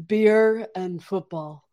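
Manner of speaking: slow, lightly voiced imitation of Jake; drawn-out mock Jake line; Jake impression. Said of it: "that's my best Jake impression".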